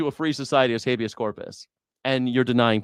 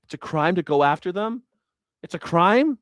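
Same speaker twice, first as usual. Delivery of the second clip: incredulous; 3 semitones higher than usual. Real, not acted. Mocking incredulous repeat.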